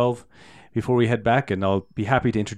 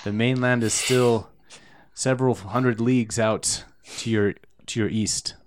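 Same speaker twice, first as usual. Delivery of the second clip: lightly voiced chef, pleased with himself; a chef proud of his fame, only lightly voiced; chef NPC.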